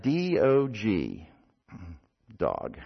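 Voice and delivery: slow, soft spelling; subdued, with a pause before the word; patient reply. Acted. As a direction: spell it out quietly, letter by letter. Youth spells again, patiently.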